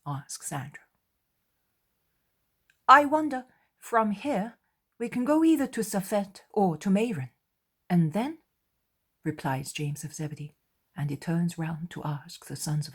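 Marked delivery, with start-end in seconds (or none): 2.9-8.4 much higher and louder, musing; wondering apostle. Acted. James wondering aloud to the group where they go, higher. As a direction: James thinking aloud, pitched up.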